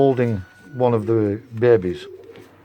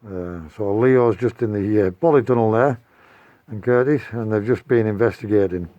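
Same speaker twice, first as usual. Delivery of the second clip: muffled. Real, not acted. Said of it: "sorry if the sound's a bit muffled".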